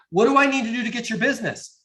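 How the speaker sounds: high, quick mock sales plea; parodied high-pressure ask; pushy wrong example. Shown as a demonstration. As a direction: push it like an over-eager closer.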